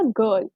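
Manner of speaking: गर्ल said as "gurl" with the r barely there; गर्ल with r swallowed, non-rhotic; soft r. Shown as a demonstration. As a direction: say गर्ल with almost no r. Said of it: "उसमें गर्ल नहीं है".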